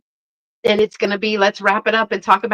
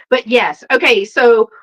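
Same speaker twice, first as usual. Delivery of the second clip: ordinary delivery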